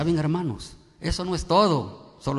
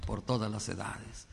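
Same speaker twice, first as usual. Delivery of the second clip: prayer. Acted. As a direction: address God reverently on the congregation's behalf.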